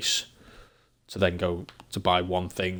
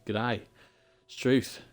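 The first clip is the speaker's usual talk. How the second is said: brief Australian greeting and exclamation; Australian accent; 3 semitones higher, slower than usual. Shown as a demonstration. English streamer showing viewers he can do Australian, Australian accent. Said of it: "I can do an Australian".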